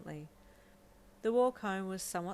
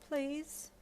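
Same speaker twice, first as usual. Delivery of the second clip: higher, small rising plea; pleading; 9 semitones higher than usual. Acted. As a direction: ask once more, nervous and hopeful. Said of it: "Deku pleaded".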